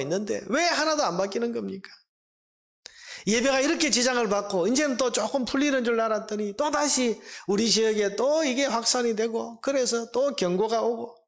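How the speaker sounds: complaining believer. Acted. Believer complaining to God about the pandemic, exasperated protest. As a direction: grumble to God, demanding an explanation. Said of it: "우리도 불평하지 않습니까".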